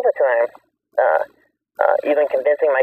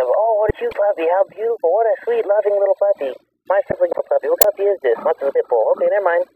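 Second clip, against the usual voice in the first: gushing customer; 6 semitones higher than usual. Retold or imitated. Customers gushing over puppy, retold.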